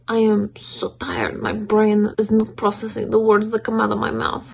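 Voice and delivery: lightly put-on slow pet accent; slow it into a playful cat voice; Beethoven's voice. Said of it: "That's kinda the accent that we give Beethoven".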